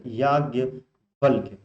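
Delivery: word stretched out slowly; slow teacher dictation; slow careful demo. Shown as a demonstration. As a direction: spell it out slowly for the class. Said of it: "याज्ञवल्क ऐसे लिखा जाएगा".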